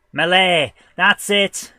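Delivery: real eureka shout; triumphant recall. Real, not acted. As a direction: exclaim it as the word finally comes to you. Suddenly remembers the word sought.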